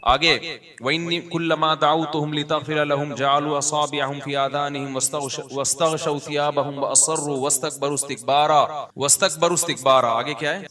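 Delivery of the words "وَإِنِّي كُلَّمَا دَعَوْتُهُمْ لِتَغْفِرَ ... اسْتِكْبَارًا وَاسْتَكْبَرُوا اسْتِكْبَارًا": melodic Arabic recitation, verse cadence; Quran recitation. Acted. Preacher reciting the verse to his listeners, melodic recitation. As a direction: chant the verse like a qari.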